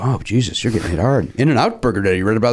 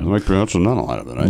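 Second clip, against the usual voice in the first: lightly voiced tipsy sportscaster, trailing lower; Ross Porter; 4 semitones lower than usual. Host returns to the perfect name, low drunk announcer. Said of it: "a Ross Porter impression".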